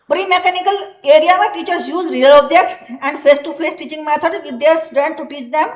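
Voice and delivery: slow, deliberate dictation pace; teacher dictating from the book; slow textbook reading. Acted. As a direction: read it out word by word for the class. Reads textbook English aloud slowly.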